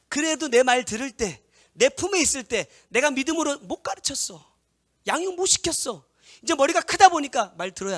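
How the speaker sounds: loud, high, impassioned preaching; full-force preaching. Acted. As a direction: preach it out hard to the congregation. (힘껏 외치는 설교)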